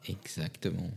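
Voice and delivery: hushed knowing whisper. Acted. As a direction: breathe it conspiratorially. Whispered agreement.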